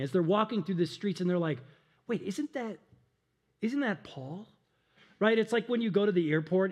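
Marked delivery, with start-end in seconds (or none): 2.1-4.5 softly acted double take; hushed recognition. Passers-by spotting Paul in the street, hushed recognition. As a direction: murmur it as if spotting someone.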